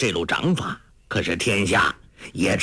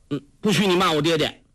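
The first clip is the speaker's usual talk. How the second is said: put-on quick, higher girlish retort; indignant protest; 6 semitones higher, faster than usual. A narrator's reading. Girl defending her father to the old beggar, indignant. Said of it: "黄蓉运道".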